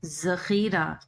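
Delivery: जखीरा with a hard, pressed ze sound; wrong hard ze in zakhira. Shown as a demonstration. Teacher demonstrates the wrong हरद ze in जखीरा, pressed z. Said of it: "जो गलत होगा".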